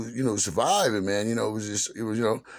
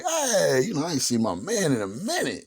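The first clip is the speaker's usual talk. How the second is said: enthusiastic greeting; 5 semitones higher than usual. Retold or imitated. Comic retelling his welcome to his man, enthusiastic greeting. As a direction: hail an old friend across the room. Acted loud greeting to Alan.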